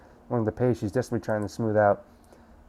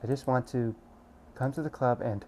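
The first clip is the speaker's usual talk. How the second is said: tearful; 8 dB quieter than usual. Acted. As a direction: speak quietly through tears. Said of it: "Suki sobs again".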